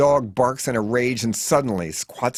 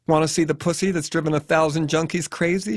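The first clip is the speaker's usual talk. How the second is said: hostile; 6 semitones higher than usual. A narrator's reading. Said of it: "with newfound hostility".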